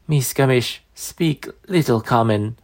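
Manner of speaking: put-on slow, strained old crone; dying old woman. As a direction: labour over each broken word.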